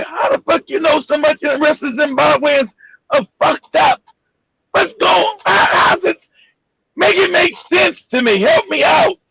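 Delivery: high, pleading disbelief; exasperated rant. Retold or imitated. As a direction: demand answers, voice rising in disbelief. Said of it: "I said".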